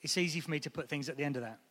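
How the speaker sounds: quiet tender devotion. Shown as a demonstration. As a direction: speak of her gently. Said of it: "if I say".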